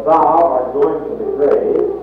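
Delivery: "Thou" rising and stressed at the start of "Thou art going to the grave". Shown as a demonstration. Preacher addressing one listener, stressing "Thou". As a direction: lean on "Thou", then let the rest follow. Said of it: "I want to emphasize the word thou".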